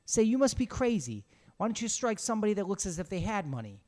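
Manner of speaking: high, loud astonished question; baffled, ask why him. Acted. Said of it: "tones of astonishment and inquiry".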